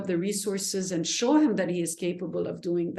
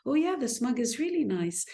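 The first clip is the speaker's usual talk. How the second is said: kind tone; 5 semitones higher than usual. Shown as a demonstration. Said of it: "That are not kind words".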